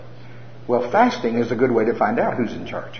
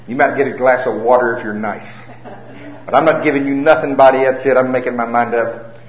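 loud, bossy self-talk ordering his body; mock-stern loud pledge to fast; determined vow; 5 dB louder than usual. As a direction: lay down the law to your own stomach. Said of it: "Here's how the war starts with Gary".

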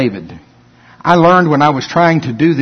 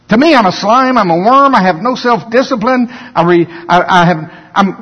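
mock self-pity; 6 semitones higher than usual. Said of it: "Jesus talked like that all the time".

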